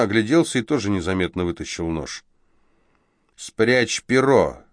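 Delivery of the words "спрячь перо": dwarf tells Boris to hide the knife, hissed slowly; hissed order. Acted. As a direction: snap it tight-lipped and slow. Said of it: "сквозь зубы бросил ему карлик".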